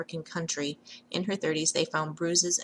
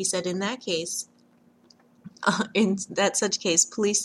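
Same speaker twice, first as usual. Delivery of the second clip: reading aloud, broken up by laughter; 3 semitones higher, 4 dB louder than usual. Reading out a report about police and a urine bottle, apologizing for laughing while reading. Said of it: "I'm just laughing at this".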